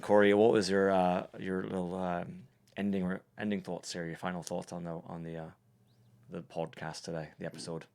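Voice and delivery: put-on light Irish accent with hesitant pauses. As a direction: ask it in a mock Irish accent. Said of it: "so an Irish accent".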